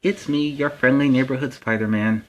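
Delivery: put-on big, loud, high hello to the kids; excited greeting. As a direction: burst in shouting a cheerful welcome. Host greets kids at show start.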